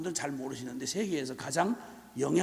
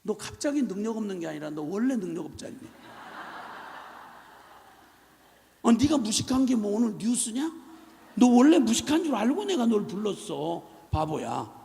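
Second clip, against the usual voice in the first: exasperated Lord. Retold or imitated. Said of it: "주님께서 너무 기가 막힌 거예요".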